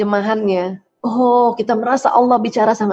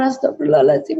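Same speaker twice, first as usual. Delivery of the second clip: istighfar; 3 semitones higher than usual. Shown as a demonstration. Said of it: "terus lagi istighfar".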